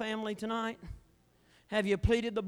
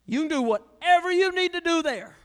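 loud, high, defiant challenge; defiant shout; 8 semitones higher, 7 dB louder than usual. Acted. Preacher daring the devil, a defiant shout. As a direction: bellow it at the devil across the line. Drawing a bloodline against the devil.

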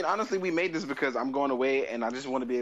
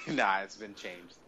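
resigned laugh; defeated laugh; 4 semitones lower, much slower than usual. Real, not acted. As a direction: laugh like a beaten man. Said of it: "that was the laugh of a defeat".

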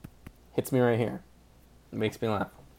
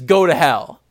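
louder quoted coach yelling; imitating a movie coach's outburst; mock yell; 7 dB louder than usual. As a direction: bark it like an angry coach. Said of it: "he says".

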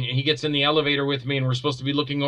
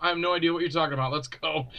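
1 dismissive brush-off; 3 dB quieter than usual. Retold or imitated. His own dismissive reply.

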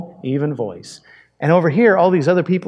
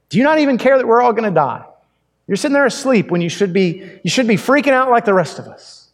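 panicked disciples; 5 semitones higher than usual. Acted. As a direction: voice pitched up, rushed and alarmed. Panicked disciples waking Jesus.

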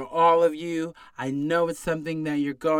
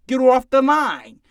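loud; 6 semitones higher, 6 dB louder than usual. Acted. Mocking complaining customer.

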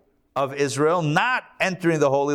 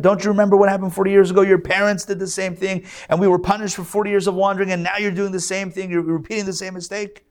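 Moses laying into them; 5 semitones higher, faster than usual. Retold or imitated. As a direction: tear into the tribes. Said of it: "he just lays into them".

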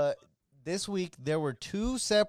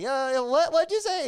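high, louder, baffled "what'd you say"; confused demand; 12 semitones higher, 5 dB louder than usual. Retold or imitated. Narrator asks the cook to repeat himself, high and baffled. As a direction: demand he repeat it, pitch climbing. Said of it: "And I was like".

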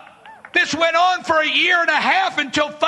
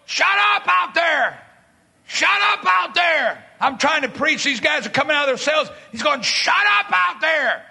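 an angry prisoner shouting from his cell; yelling inmate. Retold or imitated. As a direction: bark at him from the cell.

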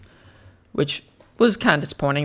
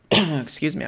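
clearing a coughing throat; slower than usual. Real, not acted. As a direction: speak through a cough. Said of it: "I'm coughing a lot".

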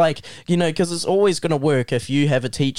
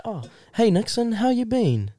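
higher-pitched, friendly imitated greeting; friendly teacher; 8 semitones higher than usual. Teacher greeting a student by name, friendly. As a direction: lightly act out a teacher's chummy hello.

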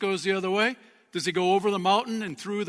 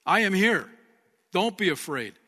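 louder comforting; 3 dB louder than usual. Retold or imitated. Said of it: "he said".

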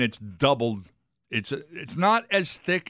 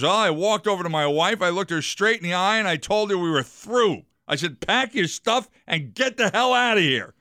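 guy telling story; 6 semitones higher than usual. Acted. Guy voiced in joke.

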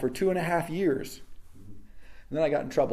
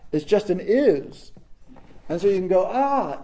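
ordinary delivery

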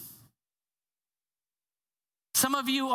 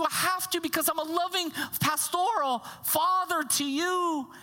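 pleading pastoral father; 4 semitones higher than usual. Retold or imitated. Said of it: "His tone becomes".

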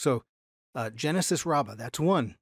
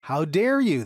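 louder, mildly outraged retort; mock indignation; 5 dB louder than usual. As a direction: imitate leaders up in arms. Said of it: "they were up in arms".

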